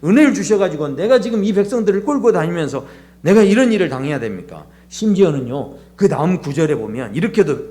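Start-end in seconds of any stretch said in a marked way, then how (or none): none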